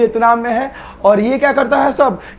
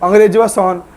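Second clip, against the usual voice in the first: mock taunt; 3 semitones lower than usual. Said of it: "हम लोग क्या बोलते थे".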